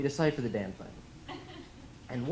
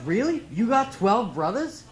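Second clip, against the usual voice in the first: put-on high, drawn-out Boston-accented disbelief; mock-incredulous Boston accent; doubting Boston interviewer; 7 semitones higher, 6 dB louder, slower than usual. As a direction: imitate a skeptical Boston man, pitched up and loud. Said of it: "I was up in Boston".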